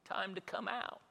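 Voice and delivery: high, loud playful call; calling the baby out. Retold or imitated. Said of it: "I should have been able to look in and say".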